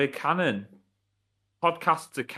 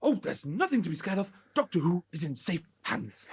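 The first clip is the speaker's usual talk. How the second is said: Russell T Davies; 3 semitones higher, 3 dB quieter than usual. Acted. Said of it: "Russell's here".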